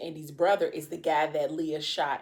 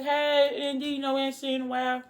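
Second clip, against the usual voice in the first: lightly voiced happy parents, higher and quick; a hint of a parent's high, fast welcome; cheery parent greeting; 8 semitones higher than usual. Parents greeting their son at the door, lightly voiced and high.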